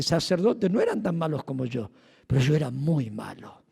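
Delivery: put-on a mild Spain Spanish accent, lowering. The speaker comparing himself to other priests in a mild Spanish accent. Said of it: "Bien con su acento español".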